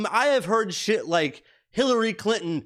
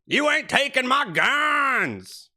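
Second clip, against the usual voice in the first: much higher, slow hollered redneck voice; redneck shout; 9 semitones higher, slower than usual. Retold or imitated. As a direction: yell it like the tobacco-chewing truck guy. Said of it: "who talks like this with chewing tobacco in his mouth".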